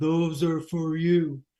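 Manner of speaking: deep, low announcer-style voice, as over a mic. Retelling what a man said through the mic: booming voice like Benny. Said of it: "this booming through the mic".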